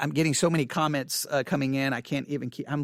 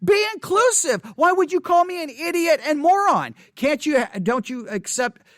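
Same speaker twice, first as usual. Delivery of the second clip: much higher, louder put-on whine; mock whiny voice; 11 semitones higher, 4 dB louder than usual. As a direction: play the offended scold as a high caricature. Mocking the commenter's hypocrisy.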